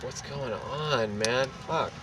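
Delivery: softly drawn-out groggy question; just woke up. Retold or imitated. Man just woken by noise in the hall, groggy. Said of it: "just woke up and I was like".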